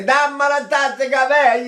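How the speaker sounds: high, loud forward syllables; head voice syllables. Shown as a demonstration. Voice teacher showing head-placed speech syllables, high and loud. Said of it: "not in my nose ... up here in the head".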